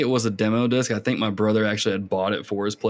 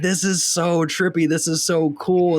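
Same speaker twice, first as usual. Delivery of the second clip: high, drawn-out wonder; slow, high-pitched awe; retold amazement; 6 semitones higher, slower than usual. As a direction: relive being blown away, stretching the words.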